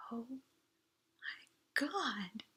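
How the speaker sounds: breathless unvoiced oh my God; awed whisper. A narrator's reading. Audrey awestruck on the moon, whispering in wonder. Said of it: "she whispered".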